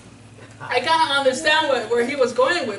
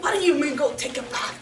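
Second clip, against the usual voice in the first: mock-angry rant, higher pitched and fast at the end; angry general; 5 semitones higher, faster than usual. General offended at being told to bathe, mock outrage. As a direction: huff and scoff like an offended general.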